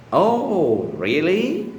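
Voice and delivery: high, loud "Oh," then "really?" climbing sharply; rising skeptical intonation. Shown as a demonstration. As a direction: question it in disbelief, "really?" swooping up high. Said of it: "said with a rising intonation".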